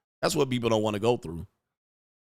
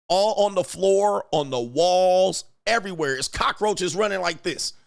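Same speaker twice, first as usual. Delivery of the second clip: disgusted excitement; 7 semitones higher, 4 dB louder than usual. Real, not acted. Describing cockroaches everywhere.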